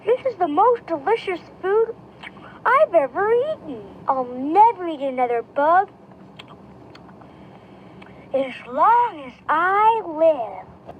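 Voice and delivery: cheering. Acted. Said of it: "cheered Stella Luna".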